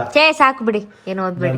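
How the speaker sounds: embarrassed protest. Real, not acted. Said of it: "ಕಣ್ಣಲ್ಲಿ ನೀರ್ ಬರ್ತಾ ಇದೆಯಾ".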